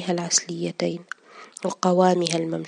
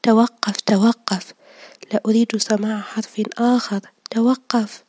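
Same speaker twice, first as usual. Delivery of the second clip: loud, higher cries of stop; repeated desperate yells, louder and higher; tearful shouting; 4 semitones higher, 7 dB louder than usual. A narrator's reading. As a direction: shout him down through tears. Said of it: "والدموع تتطاير من عينيه".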